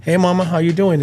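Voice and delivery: dad greeting daughter. Retold or imitated. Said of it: "I talk to my daughter".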